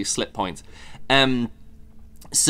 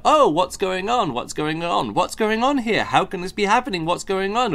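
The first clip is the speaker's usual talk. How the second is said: higher, repeated flustered questions; mock confused character; 7 semitones higher than usual. Book reviewer mocking a confused time-travel hero, higher and flustered. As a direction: mimic a baffled hero who keeps asking. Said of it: "having someone go".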